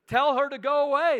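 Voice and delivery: loud, high shout to send her away; disciples shouting. Acted. Disciples yelling at the begging mother, loud and high. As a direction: bark Tell her to go away as annoyed disciples.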